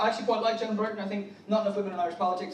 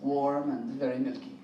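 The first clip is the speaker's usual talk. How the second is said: put-on low, softer French-accented seduction; hammed-up French lover accent; 7 semitones lower, 5 dB quieter than usual. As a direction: purr it in a mock French accent. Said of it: "a French chat up line".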